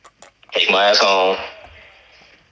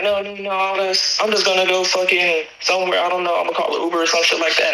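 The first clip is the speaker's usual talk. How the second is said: mimicking girlfriend; 8 semitones higher than usual. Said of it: "And she like".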